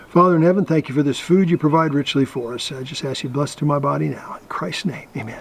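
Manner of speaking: a short mealtime prayer, fading to a hush. Real, not acted. Says grace before eating.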